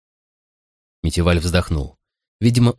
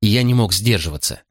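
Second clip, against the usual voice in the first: ordinary delivery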